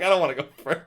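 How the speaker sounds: mock reluctance. Contestant mimicking the one who deferred, mock reluctance. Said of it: "He's like".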